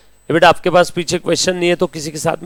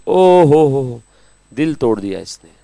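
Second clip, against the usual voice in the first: mock heartbreak; slower than usual. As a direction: playfully lament like a heartbroken victim. Mock heartbreak over a question clause. (दिल टूटने का नाटकीय अफ़सोस)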